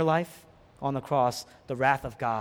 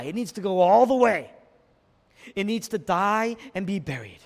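raised, punchy pulpit delivery; emphatic preaching; 4 semitones higher, 3 dB louder than usual. Real, not acted. Preacher explains the seed to the congregation, emphatic preaching. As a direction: drive each phrase home.

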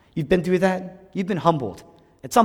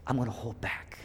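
much softer, lower, held-back promise; hushed restraint; 3 semitones lower, 11 dB quieter than usual. Acted. Preacher voicing God holding back quietly. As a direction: pull the voice right down. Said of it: "He says".

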